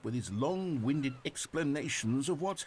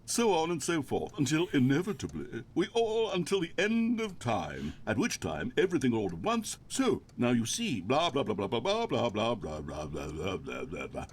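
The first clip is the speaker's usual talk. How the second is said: droning monologue; 3 dB louder than usual. Pretend. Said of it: "pretend that I've just begun an interminable monologue".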